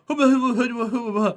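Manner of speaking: imitated unintelligible babble; grandpa's garbled counting. Grandfather counting to ten in Japanese, imitated garble. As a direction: rattle off nonsense syllables as if counting. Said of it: "And he'd go".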